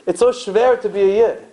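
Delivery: mild mock kvetch; weary lament. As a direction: groan it out like a tired old-country parent. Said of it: "they would say to their children".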